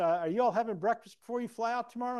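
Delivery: loud, high phone-call voice; hammed-up urgent question; imitated concerned friend. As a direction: mimic an insistent friend checking up.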